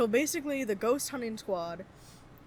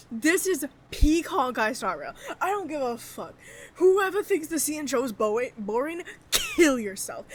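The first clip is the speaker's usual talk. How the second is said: excited gushing; 3 semitones higher, 3 dB louder than usual. Real, not acted. Excited gushing about the quest.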